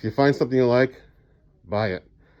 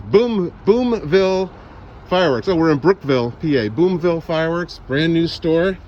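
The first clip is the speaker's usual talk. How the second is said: muffled behind a full face mask; words dulled through a mask; talking through a mask; 6 semitones higher, 4 dB louder than usual. Real, not acted. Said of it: "Sorry I'm talking through a mask".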